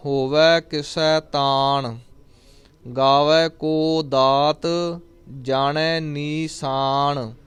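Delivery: drawn-out, chanted reading of the line; slow devotional chant; slow scripture recitation. Acted. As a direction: recite it slowly and reverently. Recites gurbani slowly.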